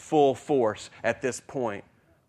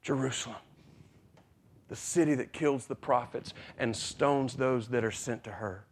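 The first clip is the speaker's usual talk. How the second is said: softer, grieving lament; 5 dB quieter than usual. Retold or imitated. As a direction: mourn over the city quietly. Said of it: "he says".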